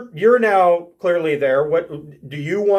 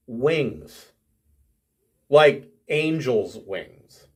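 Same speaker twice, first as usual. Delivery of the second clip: usual speaking voice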